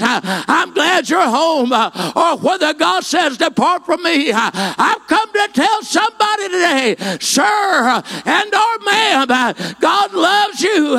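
high, ringing, full-force pulpit cry; impassioned preaching. Acted. Preacher calling the lost home, impassioned full-force preaching. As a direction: preach it out to the back pew, rising and pleading.

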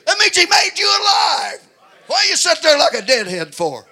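loud, high shouting sermon; preaching at full force. Acted. Preacher urging congregation to crucify the flesh, shouting. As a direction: build to a hollering preacher's climax.

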